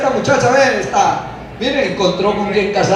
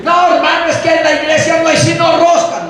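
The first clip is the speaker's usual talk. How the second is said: mock complaint; 4 semitones higher than usual. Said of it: "Pero si".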